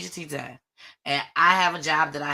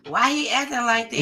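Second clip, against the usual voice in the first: higher mock questioning; imagined puzzled viewers; 5 semitones higher than usual. Viewers wondering about Jason's behavior, mock puzzled. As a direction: lightly mimic nosy onlookers. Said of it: "I want them looking like".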